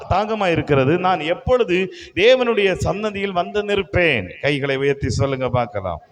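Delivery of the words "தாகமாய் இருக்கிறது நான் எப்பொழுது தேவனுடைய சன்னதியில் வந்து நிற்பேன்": slow, loud, declaimed psalm; measured, forceful Bible reading; scripture reading. Acted. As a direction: proclaim the verse to the congregation, drawn out. Reads the psalm aloud.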